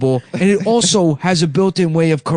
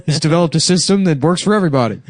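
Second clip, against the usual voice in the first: hammed-up upstate New York accent; mock upstate New York accent, starting higher; 3 semitones higher than usual. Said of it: "that classic Yang upstate New York accent".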